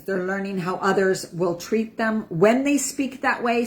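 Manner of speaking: ordinary talk, nothing marked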